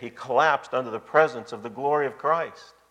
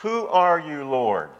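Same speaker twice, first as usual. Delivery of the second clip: Saul's startled answer; 2 semitones higher, slower than usual. Retold or imitated. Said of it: "look at Saul's answer".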